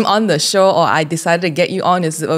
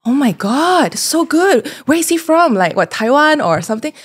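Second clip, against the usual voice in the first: her own past gasp of delight, pitched up; excited retelling; 8 semitones higher than usual. Retold or imitated. Host retelling how she first reacted to the music video, excited. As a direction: gush over the video in disbelief. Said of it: "that's when I was like".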